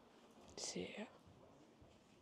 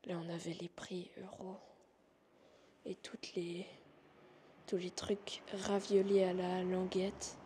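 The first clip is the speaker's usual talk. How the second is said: nervous night vlog whisper. Real, not acted. Reading menu, whispering again.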